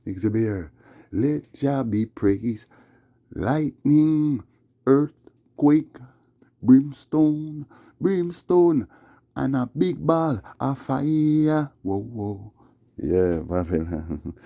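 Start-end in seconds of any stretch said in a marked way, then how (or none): 3.4-11.7 loud, high fire and brimstone; thundering preacher. Acted. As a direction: call down the fire. Thundering list of doom.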